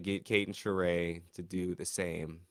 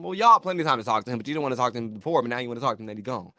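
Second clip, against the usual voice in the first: sassy comeback; 6 dB louder, much faster than usual. Retold or imitated. Snapping back at the housemates.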